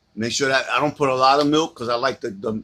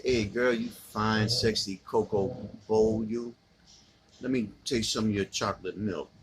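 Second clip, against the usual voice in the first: flirty pickup line; 3 semitones lower, 6 dB quieter than usual. Pretend. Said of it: "this is how I say".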